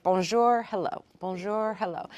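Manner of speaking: word-by-word learner's French, each followed by its translation; beginner translating. Acted. New French learner translating in the head, reciting carefully. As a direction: recite it like a first French drill. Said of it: "at first it's like".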